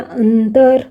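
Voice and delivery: अंतर with a held न before तर; न drawn out. Shown as a demonstration. Teacher showing the न in अंतर, drawn out. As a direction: linger on the न inside अंतर. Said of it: "त वर्ग में न आ गया".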